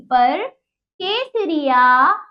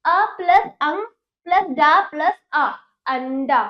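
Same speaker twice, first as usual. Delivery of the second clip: sound-it-out drill; 4 dB louder than usual. Shown as a demonstration. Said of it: "मेरे साथ आप उच्चारण करेंगे".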